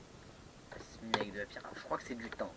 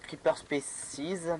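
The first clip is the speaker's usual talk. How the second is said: English words in a French accent; 5 semitones higher, much slower than usual. Real, not acted. Player reading a mod name, French-accented English. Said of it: "je suis désolé de mon accent anglais".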